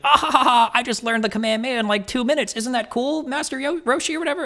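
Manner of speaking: put-on very high, giddy kid voice with a laugh; young Goku. Kid Goku bragging to his old master, squeaky and laughing. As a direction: play an excited little anime boy. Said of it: "Goku as a kid in the background. He's like".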